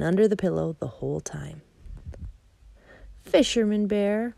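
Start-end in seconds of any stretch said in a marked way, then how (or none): 3.2-4.3 joyful, slow exclaim of the name; happy cry. Acted. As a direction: call out like you found a lost friend. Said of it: "cried Little Bear happily".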